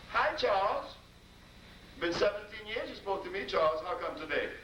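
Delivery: 3 chide him for seventeen years of silence; 1 wife's reproach. Retold or imitated. Wife confronts husband.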